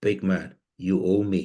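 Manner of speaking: put-on whisper. Retelling what the gaffer whispered before the match: imitating McLeish whispering. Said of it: "he whispers in my ear".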